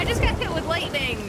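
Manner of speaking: amateur British accent, put on for a joke. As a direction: report it in a fake British accent. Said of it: "did not like my British accent either".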